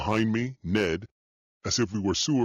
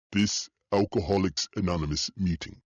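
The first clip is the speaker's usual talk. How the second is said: put-on Russian accent. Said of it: "in a heavy Russian accent".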